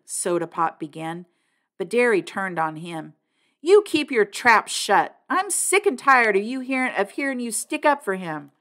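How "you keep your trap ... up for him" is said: furious, turning on the middle brother; angry order. A narrator's reading. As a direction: cut him off hard. Turns on the other brother.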